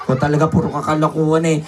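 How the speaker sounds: low, fast, muttered exasperation; exasperated aside. Acted. Host grumbles at puppet's jokes, fast and low. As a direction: roll your eyes and rattle it off.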